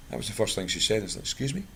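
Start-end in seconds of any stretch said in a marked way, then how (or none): 1.2-1.6 high, startled question; surprised. Retold or imitated. Replying to the Yorkshire caller, startled and high. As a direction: caught off guard, pitch jumps up.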